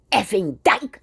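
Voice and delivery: mild mock contempt, barely marked; contemptuous slur. Man on the street sneering at her, mild contempt. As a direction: toss it off with a light sneer. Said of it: "he said it with such contempt".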